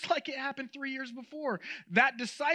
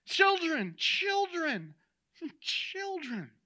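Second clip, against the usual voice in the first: high, gentle call that softens with repeats; tender; 7 semitones higher, much slower than usual. Shown as a demonstration. Jesus addresses his disciples like a father, tender. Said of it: "Notice the tenderness".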